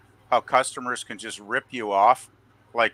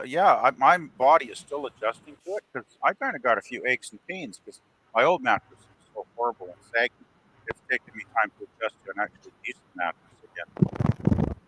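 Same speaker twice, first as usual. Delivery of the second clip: cutting out. Real, not acted. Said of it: "you're cutting out P V P".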